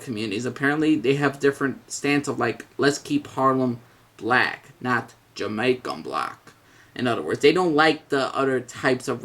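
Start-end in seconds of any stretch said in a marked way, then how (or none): 2.8-6.5 slow, put-on Jamaican accent, barely there; a clumsy imitation of a Jamaican accent; hint of a Jamaican accent, slowed way down; terrible Jamaican accent. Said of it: "I'm doing a terrible Jamaican accent".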